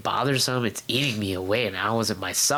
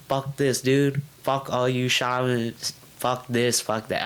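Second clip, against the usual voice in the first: retold cursing; 3 semitones higher, slower than usual. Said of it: "I was, like, cursing out the world".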